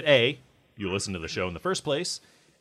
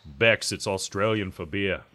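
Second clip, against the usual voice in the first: bad Australian accent. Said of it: "That was terrible".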